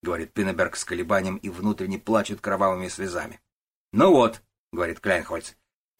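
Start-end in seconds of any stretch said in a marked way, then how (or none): 3.9-4.4 triumphant boss. Acted. Начальник торжествует.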